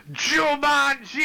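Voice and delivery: high, loud, drawn-out war cry; battle scream. Acted. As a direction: scream it long as you charge into a rage. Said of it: "I scream".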